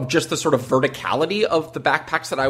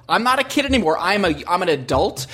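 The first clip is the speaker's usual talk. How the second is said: judgmental; 4 semitones higher than usual. Retold or imitated. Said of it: "I was speaking in the judgmental voice of mine peers".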